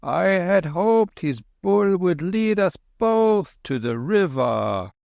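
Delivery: put-on high, slow gentle old monk; old lama voice.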